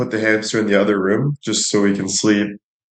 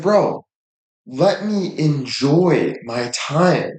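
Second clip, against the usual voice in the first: exasperated plea; 5 semitones higher, much slower than usual. Retold or imitated. Pleading with the hamster.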